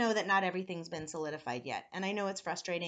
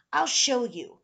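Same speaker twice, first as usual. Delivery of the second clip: loud, higher-pitched boast; urging creature; 5 semitones higher, 12 dB louder, slower than usual. A narrator's reading. Creature tempts boy to misbehave, urging. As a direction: push it out eagerly and forcefully.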